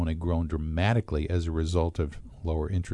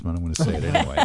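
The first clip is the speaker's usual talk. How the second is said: laughing aside; 3 dB louder, much faster than usual. Real, not acted. Aside before a risky political comment.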